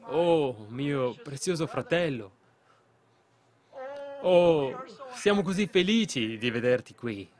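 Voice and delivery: imitating a happy call to a brother; joyful cry. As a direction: mildly cry out a delighted greeting. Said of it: "e gridò".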